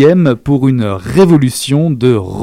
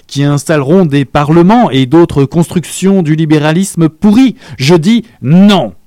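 mounting anger; 3 semitones higher than usual. Acted. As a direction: work up to a furious refusal. Young man's mounting tirade.

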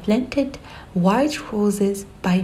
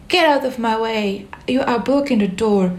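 higher, bossy rabbit shout; 3 semitones higher than usual. Acted. White rabbit to Alice in the doorway, a higher shout. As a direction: shoo her from the doorway. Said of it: "shouted the white rabbit".

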